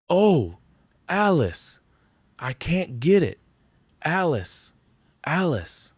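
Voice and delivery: high, loud pleading wail of her name; desperate wail. Acted. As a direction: beg her frantically, voice shooting up. Mel begging Alice in distress.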